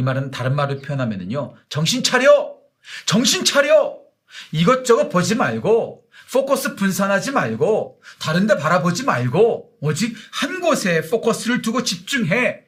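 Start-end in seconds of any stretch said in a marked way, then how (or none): 1.7-12.6 high, loud urgent command to wake up; God's shouted command. Acted. Preacher voicing God, commanding the people: loud urgent call. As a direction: shout it like God shaking his people awake. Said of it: "이렇게 말씀하고 계시는 거죠".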